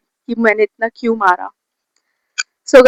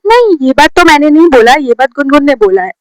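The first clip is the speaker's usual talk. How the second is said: imitating a friend's higher-pitched denial; defensive denial; 3 semitones higher, 3 dB louder than usual. Friend called out by the teacher blames another, defensive. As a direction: deny it firmly, passing on the blame.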